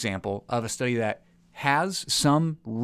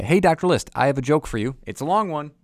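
bright email read; 4 semitones higher, 8 dB louder than usual. Acted. Reading the listener's email aloud.

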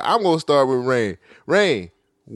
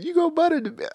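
put-on Southern accent; 13 semitones higher, much faster than usual. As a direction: imitate a thick Southern accent. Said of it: "turn your Southern accent down".

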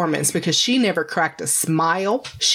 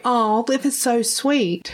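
quoting husband; 5 semitones higher, slower than usual. Retold or imitated. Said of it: "he was like".

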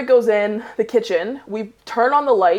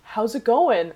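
casual; 5 semitones higher, slower than usual. Retold or imitated. Roommate sounding out the intruder, casual. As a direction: play it cool, avoiding any accusation. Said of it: "just casually".

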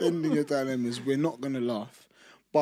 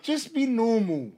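fighting back laughter; trying not to crack up; stifled giggles; 10 semitones higher, 4 dB louder, slower than usual. Real, not acted. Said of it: "Why are you trying not to laugh?".

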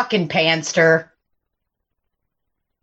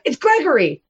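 higher, mimicked customer giving his name; quoted customer; 5 semitones higher than usual. Server imitating another customer at the cars, lightly mimicked higher voice. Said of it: "He's like".

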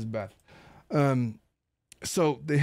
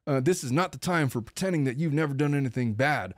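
Cruella de Vil voice; 3 semitones higher than usual. Retold or imitated. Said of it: "evil Cruella de Vil voice".

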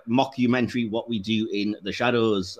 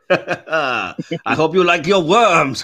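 spooky tease; 4 semitones higher, 7 dB louder, much slower than usual. Acted. Teasing co-host, creepy voice.

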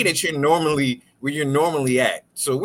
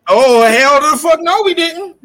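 loud refusal; 5 semitones higher, 5 dB louder, slower than usual. Real, not acted.

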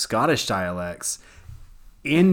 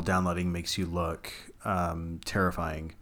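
low, slow, ominous; spooky horror voice; 6 semitones lower, 8 dB quieter, slower than usual. Shown as a demonstration. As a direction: drop it down low and creep them out. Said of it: "it's uplighting versus downlighting".

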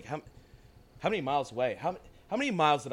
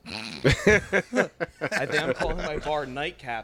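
laughing; 3 semitones higher, 5 dB louder, much slower than usual. Real, not acted. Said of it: "repeats the name laughing".

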